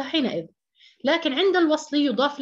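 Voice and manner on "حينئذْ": حينئذ closed on a vowelless ð; original sukun form. Shown as a demonstration. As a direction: end حينئذ on ð, without any tanween. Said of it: "أصلها حينئذ".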